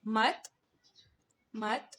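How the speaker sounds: मत with a short a and a final t; example word demo. Shown as a demonstration. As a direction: model मत for the students. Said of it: "जैसे हमने पढ़ा था सियत के लिए".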